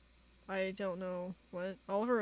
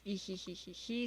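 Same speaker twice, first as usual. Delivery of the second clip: read-out tittering hee-hee; imitated giggle; 4 dB quieter than usual. Voicing the sticker Oliver sends, mock giggle. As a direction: imitate a sticker's little laugh in an even tone. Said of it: "why are you laughing like that".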